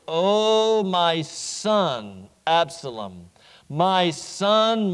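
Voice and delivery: slow, broken cry of a father; grieving lament. Acted. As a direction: mourn each word, fading away to almost nothing. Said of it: "he speaks these passionate, emotional words".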